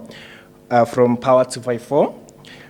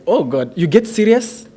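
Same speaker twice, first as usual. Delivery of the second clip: higher, louder mock disbelief; retold surprise; 5 semitones higher, 3 dB louder than usual. Friend startled to find the comic one serious, in mock disbelief. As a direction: act out a friend's amused astonishment, getting louder. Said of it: "And then he was like".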